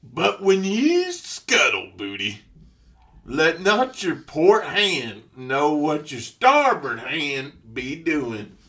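pirate voice. Pretend. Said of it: "Read that top one right there".

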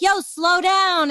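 lightly acted, drawn-out "yo, slow down"; Aura calling a halt. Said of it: "Aura's like".

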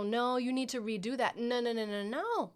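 a hint of a nagging parent; correcting mom. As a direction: rattle off the no's, rising at the end.

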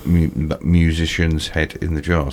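speaking without dentures; words mushy with no teeth; toothless. Real, not acted. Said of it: "Sorry, I haven't got my teeth".

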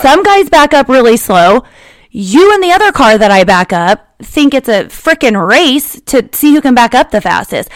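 talking while out of breath; breathless, winded delivery. Real, not acted. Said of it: "I am out of breath".

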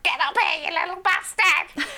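high yelled summons; mock yell at son. Mother calling son upstairs, high mock yell. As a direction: bark him upstairs, half joking.

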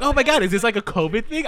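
high, loud, amused mock gush; excited retelling. Recalling asking Eddie about the little wine shots, excited and amused.

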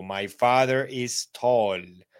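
slow, clear teacher model; slow model sentence. Shown as a demonstration. Teacher modelling a sentence for the class, slow and clear. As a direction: spell it out for learners. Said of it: "y le ponemos un adjetivo".

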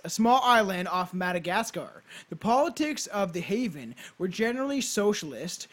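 storyteller read with punched key words; measured, emphatic read-aloud; scripted narration. Acted. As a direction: present it like a podcast history script. Reads a scripted history.

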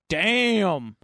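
drawn-out stunned exclamation; mock amazement. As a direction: stretch it in hammed-up disbelief. Acted astonished reaction to statue.

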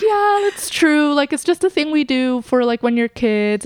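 mom voice. Retold or imitated. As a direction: admit it gently like an amused mom. Mom admitting Santa isn't real.

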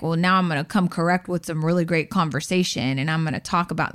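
a hint of a self-important guy; man voice. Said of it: "that's my man voice".

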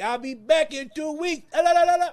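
high, loud singsong farewell, skipping off; breezy la la la as you walk out; carefree mock goodbye. Leaving the family for Africa, carefree singsong.

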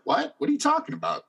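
high, squeaky "What?" of retold shock; mock disbelief. To the bond lady who scolded him, high mock disbelief.

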